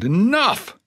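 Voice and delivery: sudden high cry of anguish; shout. Acted. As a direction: break off with a desperate cry. Reiser cries out, overwhelmed.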